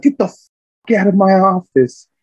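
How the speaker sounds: slow, high mock shout; loud, drawn-out angry order; livid gunny. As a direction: imitate a furious superior throwing someone out. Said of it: "my gunny was livid".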